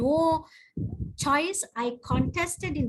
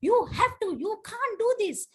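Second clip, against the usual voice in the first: insistent president; 8 semitones higher, faster than usual. Retold or imitated. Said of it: "club president was like".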